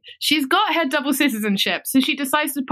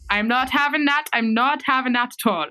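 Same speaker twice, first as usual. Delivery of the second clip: mock indignant refusal; 2 semitones higher than usual. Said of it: "she says".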